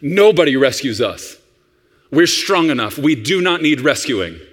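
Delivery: lightly voiced self-sufficient adult; a hint of stoic adult. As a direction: state it firmly as a grown-up who needs nobody. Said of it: "Here's how an adult talks".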